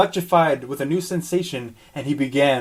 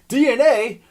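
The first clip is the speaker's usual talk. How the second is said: monster voice, surprised; 10 semitones higher, 5 dB louder than usual. Acted. Roger confused.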